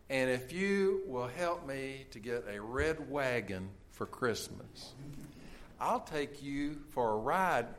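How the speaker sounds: put-on slow, soft childlike bargaining; innocent boy. Boy bargaining with baby Jesus for a wagon, soft and slow. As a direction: offer the deal gently, like a small child. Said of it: "the little boy innocently said".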